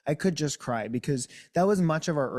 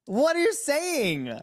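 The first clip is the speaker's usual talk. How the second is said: retold disbelief; 12 semitones higher, 3 dB louder, much slower than usual. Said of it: "And I was like".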